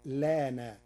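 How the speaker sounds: لان with no initial hamza; demonstrating the dropped hamza; shortened form. Shown as a demonstration. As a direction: say لان as lana. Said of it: "أو".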